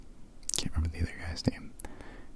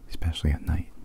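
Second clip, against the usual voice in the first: normal talking voice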